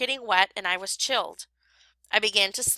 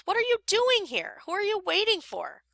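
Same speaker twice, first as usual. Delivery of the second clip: surprised friend; 11 semitones higher than usual. A narrator's reading.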